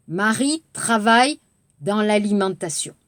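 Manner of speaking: "Marie travaille dans l'alimentation" in one smooth flowing line. Shown as a demonstration. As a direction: run it together in one breath. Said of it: "빠르게". (빠르게 이어 읽기)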